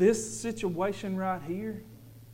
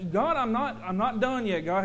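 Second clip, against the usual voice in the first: whining; 5 semitones higher, 6 dB louder than usual. Retold or imitated.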